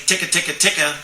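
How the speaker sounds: quick ticking syllables; real fast. Shown as a demonstration. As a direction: rattle off ticka ticka quickly. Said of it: "real fast".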